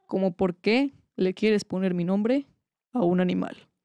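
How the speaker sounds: restrained interrogation, carefully not shouting; pretend very calm. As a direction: ask with forced calm, spacing out each phrase. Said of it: "Pregunto de manera muy calmada, sin gritar".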